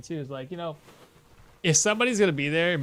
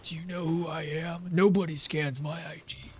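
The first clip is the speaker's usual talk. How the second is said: softer, put-on voice of a snooty customer; mocking entitled customer; 6 dB quieter than usual. Cashier imitating a snooty customer, softly mocking. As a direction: sneer it like the customer did. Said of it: "How dare I".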